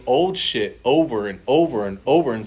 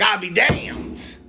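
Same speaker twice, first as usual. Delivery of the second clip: drawn-out amazement; 8 semitones higher, much slower than usual. Retold or imitated. Realizing the prayer worked.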